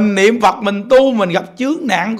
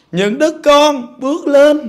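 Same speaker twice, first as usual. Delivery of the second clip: Amitabha's welcome; 4 semitones higher than usual. Retold or imitated. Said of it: "Nói".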